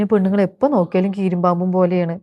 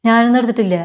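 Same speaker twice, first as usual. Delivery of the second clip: sharp denial; 4 semitones higher, 4 dB louder than usual. Acted. Denying in the quarrel.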